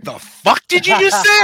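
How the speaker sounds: high, loud disbelieving yell; outraged shout. Retold or imitated. Offended stranger yelling in disbelief at the joke. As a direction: blast it like someone who can't believe their ears. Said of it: "And they're like".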